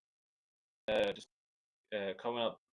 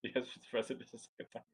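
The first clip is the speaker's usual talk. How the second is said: mock secret whisper; 7 dB quieter than usual. Echoing the mock briefing.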